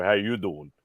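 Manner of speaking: lightly voiced sitcom catchphrase; mild catchphrase impression; Joey. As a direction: toss off a hint of a TV character's pickup line. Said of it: "the Joey from Friends".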